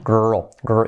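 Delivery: put-on "Girl" said short and throaty, like "gro"; demonstrated girl. Shown as a demonstration. Teacher showing the trick: throaty girl. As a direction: say "girl" with a growled R. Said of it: "Bueno, más o menos".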